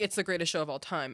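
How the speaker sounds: ordinary delivery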